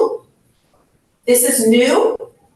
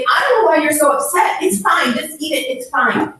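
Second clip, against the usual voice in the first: dismissive; 3 semitones higher, faster than usual. Retold or imitated. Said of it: "when we say".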